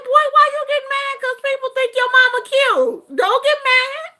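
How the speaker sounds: high, loud, quick ribbing; teasing mother. Retold or imitated. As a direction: rib your son in a squealing voice. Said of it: "I was like".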